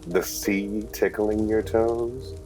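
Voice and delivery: slow, teasing temptation; seductive coaxing. Acted. Husband tempts wife with a vacation, slow coaxing. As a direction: draw it out to tempt her.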